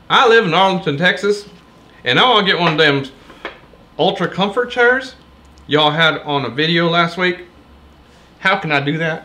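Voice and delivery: a faint put-on Texas accent; mock Texas accent. Shown as a demonstration. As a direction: try a Texas accent, barely changed. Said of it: "Texas accent".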